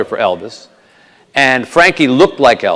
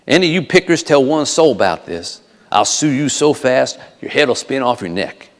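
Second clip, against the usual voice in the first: Southern manager's measured threat; Colonel Parker's warning. Acted. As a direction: warn them in a Southern accent. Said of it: "he added this warning".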